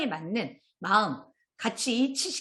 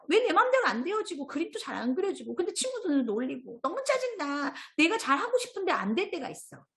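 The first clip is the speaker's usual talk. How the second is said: put-on higher, whiny voice of a fed-up little kid; annoyed child character; 6 semitones higher than usual. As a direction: whine it like a child who can't get anything right. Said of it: "마음이도 이제 막 짜증이 나는 거예요". (짜증 난 아이 목소리로 칭얼대듯)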